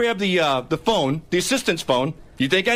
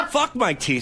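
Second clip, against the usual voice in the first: laughing through the words, a touch slower; 4 semitones higher than usual. Real, not acted. Host mocks his new teeth, guest laughs back. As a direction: brush off the teeth joke with a laugh.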